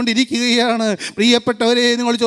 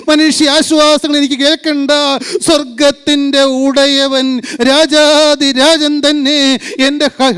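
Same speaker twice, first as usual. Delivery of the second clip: fervent prayer; 4 dB louder than usual. Real, not acted. Preacher pleading with Jesus to speak to his heart, fervent prayer. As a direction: pray out loud with rising intensity.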